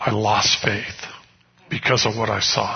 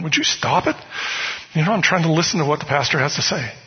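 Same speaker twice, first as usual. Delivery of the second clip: higher, fast, irritated hush; annoyed scolding; 4 semitones higher, faster than usual. Retold or imitated. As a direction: rush the rebuke, fed up. Elbowing friend again.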